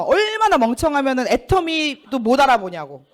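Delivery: a touch of angry berating; mock cursing. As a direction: imitate mom calling you stupid. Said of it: "진짜 막 욕을 하면서".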